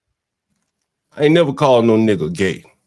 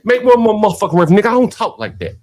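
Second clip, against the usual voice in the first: raised, heated retelling; retold angry rant; 7 semitones higher than usual. Telling co-host what he said to Izzy, heated. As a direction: snap it back at him, heated. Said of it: "I said".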